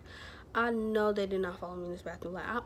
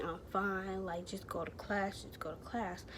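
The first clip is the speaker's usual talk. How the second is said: soft, whispered "just go"; hushed retelling of brushing off worried friends; quiet brush-off; 5 dB quieter than usual. Retold or imitated. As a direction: wave them off in a hushed voice. Hiding tears from friends.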